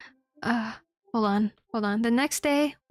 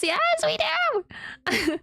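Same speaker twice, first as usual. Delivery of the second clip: sing-song yes; much slower than usual. Real, not acted. Greeting chat, sing-song.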